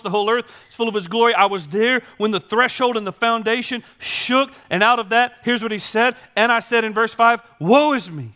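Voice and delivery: loud, high, fervent sermon shout; preaching at full force. Acted. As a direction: drive the vision home to the crowd. Preaching Isaiah's vision.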